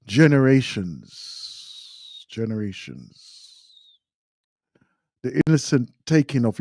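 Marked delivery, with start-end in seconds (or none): 0.1-1.1 "generations," said louder and firmly with a falling close; emphatic. Real, not acted. Repeats word, then echoes it. 2.3-4.0 "generations." much softer and slow, a falling murmur; quiet echo. Real, not acted. Repeats word, then echoes it.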